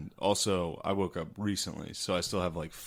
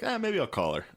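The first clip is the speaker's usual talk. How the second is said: mock hopeful; 10 semitones higher than usual. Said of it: "you're like".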